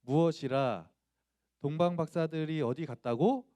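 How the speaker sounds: shy schoolboy's feeble attempt at anger; stiff bad acting. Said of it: "정말 발연기로".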